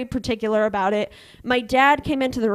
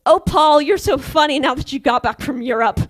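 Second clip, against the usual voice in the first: louder, airy fake-ditzy gush; mock dumb-girl gush at a creepy old boss; playing dumb; 3 semitones higher, 6 dB louder than usual. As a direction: act clueless and charmed to brush him off. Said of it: "I played the dumbest person".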